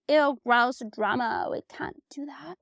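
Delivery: mock disgusted friends, sinking to a whisper; a prissy "ew" that fades to a whisper; mocking girlfriends. Retelling friends who dodged her drama, mock disgust whispered. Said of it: "two girlfriends that were like".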